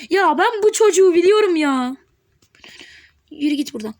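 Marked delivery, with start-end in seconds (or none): 0.1-2.0 louder, higher, "bu" punched; annoyed loud recognition; exasperated outburst. Real, not acted. Recognizing the opponent.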